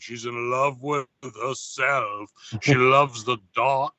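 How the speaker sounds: lightly done slow Italian Brooklyn croon; a hint of a singer's Italian Brooklyn accent, slowed right down; low-key Italian Brooklyn accent, slow and dark. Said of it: "with his fucking Italian Brooklyn accent".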